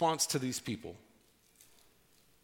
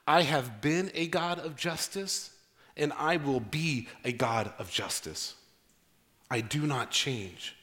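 solemn God's voice; 3 semitones lower, slower than usual. Acted. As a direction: speak as God, steady and sure. Quoting God solemnly.

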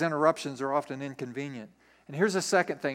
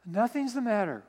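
raised pitch, feigning that all is fine; higher, falsely casual denial; evasive wife; 4 semitones higher than usual. Acted. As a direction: cover up nerves with mock innocence. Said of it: "why are you talking like this".

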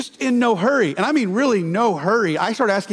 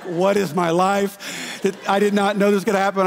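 stunned wife. Retold or imitated. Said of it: "And Blair is like".

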